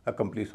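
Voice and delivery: अकम्प्लिश opening on a schwa, "uh-KUM-plis"; light अ start on अकम्प्लिश; candidate pronunciation. Shown as a demonstration. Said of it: "इसका उच्चारण क्या होगा".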